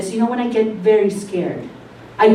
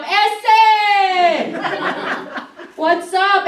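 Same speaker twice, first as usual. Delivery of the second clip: mock chola; 10 semitones higher, much slower than usual. On set, playing a chola role, hammed-up high greeting. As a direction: play a cartoonish chola, laughing through it. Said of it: "walking with my pants up".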